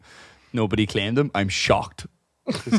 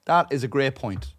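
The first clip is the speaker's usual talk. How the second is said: hammed-up, high, louder bouncer conceding; mock-cheerful bouncer giving up; 7 semitones higher, 7 dB louder than usual. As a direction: play an overly polite bouncer giving in. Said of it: "I have never once seen a bouncer be like".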